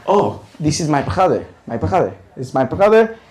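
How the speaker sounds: mock Arab accent, insistent repeats; imitated Arab accent. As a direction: play her explaining in an Arab accent. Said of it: "this thick Arab accent".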